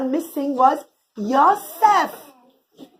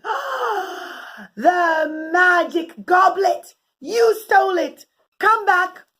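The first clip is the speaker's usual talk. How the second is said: accusing guards; 6 semitones higher, much slower than usual. Acted. Guards catching the thief.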